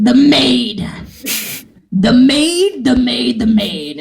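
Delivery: emphatic repeated demand, settling down by the end; insistent. Retold or imitated. Actor telling casting director which part she wants, insistent. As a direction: insist on it, first burst strongest.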